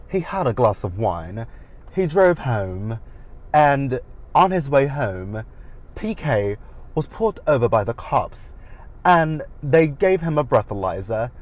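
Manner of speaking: mock affected accent, drawn out; Dorit's accent. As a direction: lightly put on an uncertain, imitated accent. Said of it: "I don't know what Dorit's accent is".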